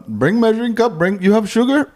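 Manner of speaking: high-pitched imitation Arab accent, veering Indian; mock Arab accent. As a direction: imitate your friend in a put-on Arab accent. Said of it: "So you always do this accent".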